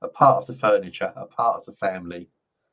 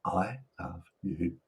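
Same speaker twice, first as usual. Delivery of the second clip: tender I love you; 4 semitones lower, 9 dB quieter, much slower than usual. Shown as a demonstration.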